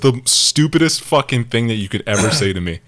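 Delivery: retold blunt dismissal. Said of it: "he bluntly told me".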